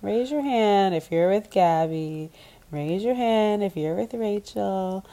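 slow, announcing host voice; slow mock roll call; host announcement. Mimicking host asking guys.

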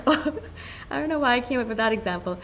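a real laugh, then chuckling through the words. Real, not acted. Amused at her own toilet example, talking through a laugh.

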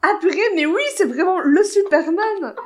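high, loud, delighted exclamation; excited discovery. Real, not acted. Realizing the friend's story is true, excited and loud. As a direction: burst out with real delight at the discovery. Finds Dean Cain online.

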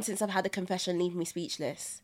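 hushed stunned whisper. Real, not acted. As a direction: speak it under the breath. Stunned after confession.

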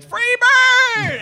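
high yelled heckle; heckler yell. Retold or imitated. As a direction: bellow it from the crowd. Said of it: "stop yelling".

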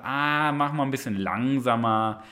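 a hint of a cozy couch tempter; lazy inner voice. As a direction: lure gently toward giving up. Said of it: "wenn diese Stimme kommt und sagt".

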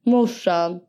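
put-on Värmland accent. Offering mum some sausage, Värmland accent. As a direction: imitate a Värmland local. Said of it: "Det är lite värmländska".

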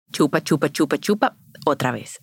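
chupa, chupa in a steady soft beat; rhythmic sucking demo. Shown as a demonstration. Explaining how the baby restarts milk flow, steady chant. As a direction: tap out the suck rhythm. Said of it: "el bebé".

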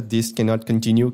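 slow, lightly robotic quote; a hint of a robot voice; half robot voice. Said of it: "falando com uma voz robótica". (meia voz robótica)

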